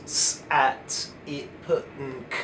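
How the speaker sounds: each letter said as its short isolated sound, not its name; phonics letter sounds. Shown as a demonstration. Teacher listing the first Jolly Phonics sounds, phonics letter sounds. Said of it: "all of the Jolly Phonics sounds".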